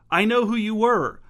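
high, loud and eager; blurting it out excitedly. Acted. Gentry bursting with excitement.

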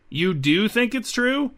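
drawn-out, high-pitched disbelief; slow incredulous question, pitched well up; wide-eyed surprise. A narrator's reading. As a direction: stretch it out high, in open amazement. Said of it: "Colby's eyes widened".

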